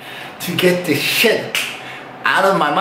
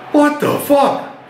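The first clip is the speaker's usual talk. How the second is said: What the fuck said slow and much higher, full shock; 9 semitones higher, slower than usual. Retold or imitated. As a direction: drag out What the fuck in high amazement. Repeats shock at their size.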